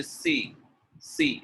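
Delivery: "C" with a plain s in place of sh; s-for-sh slip on "C"; mistaken s sound. Shown as a demonstration. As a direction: say it like the letter "C". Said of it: "It is not alphabet C".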